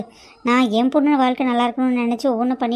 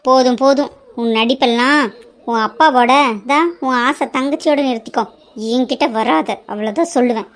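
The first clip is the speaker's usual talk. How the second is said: loud, cutting enough; angry dismissal; 2 semitones lower, 3 dB louder than usual. Acted. Stepmother silences the crying daughter, angry and loud. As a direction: shut her down harshly. Stepmother cuts her off angrily.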